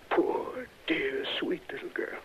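hushed, grieving whisper; softly whispered sorrow for his beloved; distressed whisper. Acted. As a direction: breathe it out as if heartbroken. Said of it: "His honest distress".

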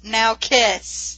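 all caps. Retold or imitated. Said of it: "my notes here just say, in all caps".

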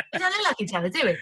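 high-pitched, playful quoted protest; mock disbelief. Acting out director at the mirror.

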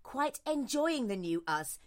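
slow confiding whisper. Pretend. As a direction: whisper it like a naughty secret. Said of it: "whisper it".

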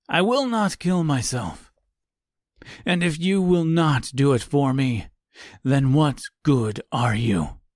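lightly voiced old man, pleading; desperate old man. Reginald pulls a knife.

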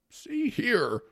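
high, loud irritated judge; exasperated judge's outburst; cross interruption. Acted.

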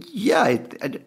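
high, whispered gasps for air; breathless panic. Retold or imitated. Fights for breath telling his wife he is dying, in a whisper. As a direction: struggle to get words out while panicking. Panic attack, can't get words out.

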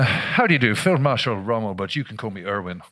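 put-on a light, hammy German accent as Rommel; bad German accent. Reenactor dressed as Rommel introducing himself, bad German accent. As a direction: put on a poor German accent for the Field Marshal. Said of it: "Sorry about the, uh, the bad accent".

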